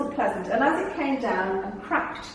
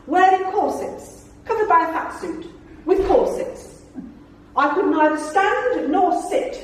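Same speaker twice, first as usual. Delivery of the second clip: higher, refined grand-lady voice; lightly posh actress; 6 semitones higher than usual. Retold or imitated. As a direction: complain grandly like a duchess. Celia Imrie voiced posh.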